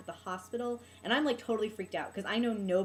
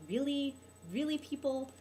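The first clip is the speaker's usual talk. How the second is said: higher-pitched incredulous questioning; exasperated disbelief; 6 semitones higher than usual. Retold or imitated. Teacher reacting to a horrible book, high disbelief. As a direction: ask it as if appalled at them.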